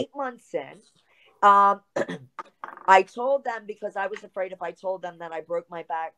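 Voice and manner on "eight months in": hushed aside, all breath; whispered confidential aside. Real, not acted. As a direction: drop to a whisper as if sharing a secret. Aside about husband's new job.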